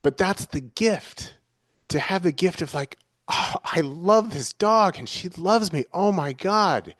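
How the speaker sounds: choked-up and high, fighting back tears; tearing up. Real, not acted. Telling listener how much she loves her aging dog, tearful and breaking. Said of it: "you can probably tell I'm tearing up".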